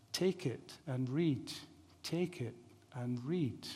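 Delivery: softly imitated child's chant, slow and lilting; sing-song child's voice. Preacher retelling the voice Augustine heard in a garden, gently sing-song. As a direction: lightly voice a distant sing-song call, unhurried and soft. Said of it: "he heard that sing-song voice".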